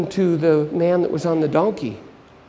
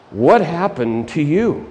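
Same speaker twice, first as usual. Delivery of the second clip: slow, drawn-out question; lightly voiced preacher; slower than usual. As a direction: stretch the question out in mock concern. Preacher reacting to the injured man.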